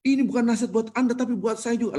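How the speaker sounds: high, urgent confession from the pulpit; retold preacher turning the sermon on himself; emotional preacher. Khotib admitting the advice is for himself too, emotional. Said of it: "nangis dia".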